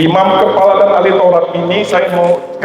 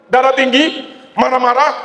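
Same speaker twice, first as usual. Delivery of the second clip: normal talking voice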